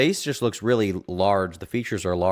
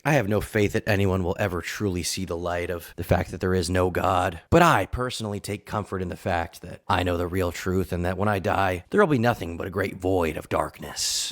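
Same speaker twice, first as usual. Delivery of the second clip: nonchalant parody. Retold or imitated. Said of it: "He's so nonchalant".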